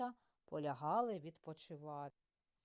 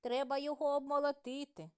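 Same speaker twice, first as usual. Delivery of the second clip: higher, louder, quick little mouse voices; 6 semitones higher, 7 dB louder, faster than usual. A narrator's reading. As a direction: chirp it fast like tiny mice. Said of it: "Прибігли мишенята й кажуть".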